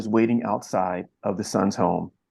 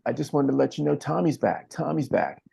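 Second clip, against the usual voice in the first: higher, halting and hesitant; 4 semitones higher than usual. Retold or imitated. Father telling his estranged son his brother is home, hesitant. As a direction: tentatively break the news, holding back. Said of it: "hesitantly walking towards him saying".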